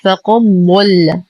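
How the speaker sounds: فقد ضل run together with no د, faqaddalla; mistaken merging. Shown as a demonstration. Teacher shows what goes wrong, merged د in فقد ضل. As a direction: drop the د of فقد into a doubled ض of ضل. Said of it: "ستدغم بالضاد فتصبح".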